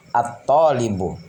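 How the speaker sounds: At-talibu with no l in the article, straight to a doubled t; lam assimilated. Shown as a demonstration. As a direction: hold the first t of At-talibu in place of the lam. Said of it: "langsung ke hurufnya".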